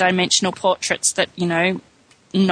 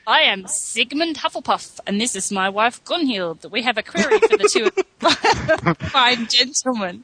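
a hint of pompous greeting; lightly voiced formal introduction. Reads character's formal introduction aloud.

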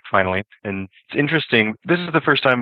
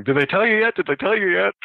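excited; 11 semitones higher than usual. Retold or imitated. Twins burst in excited.

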